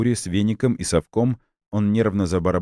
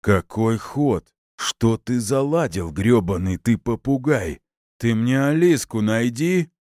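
put-on slow, higher, furious drunk demand; angry demand; 6 semitones higher, slower than usual. A narrator's reading. Father shouting at the colonel to find his girl, furious.

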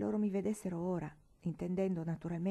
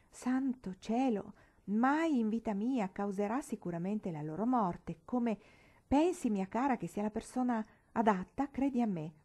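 put-on declaiming old lady; 3 semitones higher than usual.

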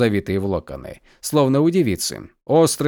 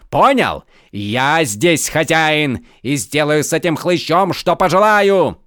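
loud, higher, hammering each claim; arrogant rant; 5 semitones higher, 5 dB louder than usual. Acted. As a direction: lord it over everyone. Count rants he is master.

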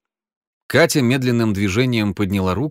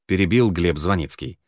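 ordinary delivery

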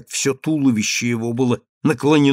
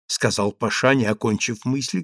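ordinary delivery, nothing marked

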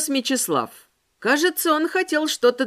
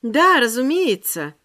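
chirpy. Acted. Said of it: "прощебетала я".

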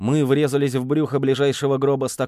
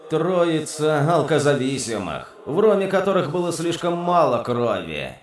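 contemptuous; 3 semitones higher than usual. Acted. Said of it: "Драксус презрительно фыркнул".

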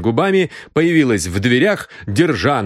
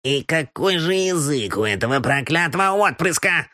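exclaiming; 6 semitones higher than usual. Acted. Housekeeper exclaims about the boy's foul tongue, dismayed old woman. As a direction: throw up your hands in old-woman dismay. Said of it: "воскликнула миссис Мур".

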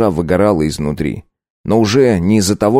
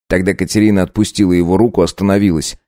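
ordinary delivery

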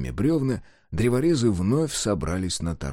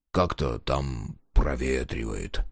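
quiet; 10 semitones lower, 5 dB quieter, slower than usual. Acted. Trailing uneasy tale.

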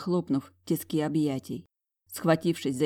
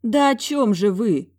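slow, louder exasperated demand; exasperated outburst; 5 semitones higher, 6 dB louder than usual. A narrator's reading. Heroine losing patience with the aunt, exasperated. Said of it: "не выдержала я".

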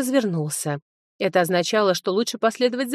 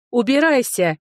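loud, angry order out; shouted; 5 semitones higher, 5 dB louder than usual. A narrator's reading. Sofi orders Linoy out of her room, shouting. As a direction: throw him out with a shout. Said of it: "крикнула я".

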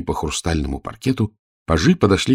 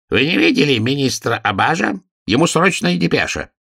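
a hint of a trembling old courtier, higher; lightly voiced old master of ceremonies; quavering old man; 9 semitones higher than usual. Old master of ceremonies calls to the pages, lightly quavering. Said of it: "дребезжащим голосом".

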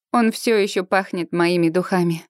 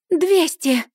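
defiant bid; 8 semitones higher than usual. A narrator's reading. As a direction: throw down the challenge. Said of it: "вызывающе заявляет девица в розовом".

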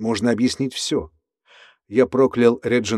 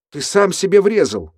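astonished; 8 semitones higher, 3 dB louder than usual. Acted. Max stunned by the event.

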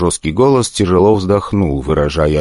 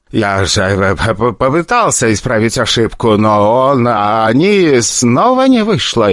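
slow frightened stutter; terrified director stuttering into the phone; stammering fear; 5 semitones higher than usual. Acted. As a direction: stumble over the words in panic. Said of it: "мямлил в трубку".

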